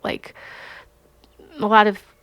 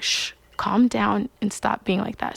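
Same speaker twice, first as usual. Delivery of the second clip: calm hush; 5 dB quieter than usual. Retold or imitated. God calming her.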